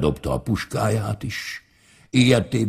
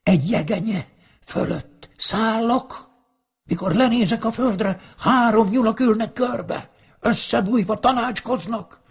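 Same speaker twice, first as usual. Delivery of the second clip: much higher, frightened magpie squawking the news; a bird calling out a warning, voice pitched high; magpie crying out; 12 semitones higher than usual. Acted. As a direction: cry it out like a panicky magpie. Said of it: "a szarka így kiáltott".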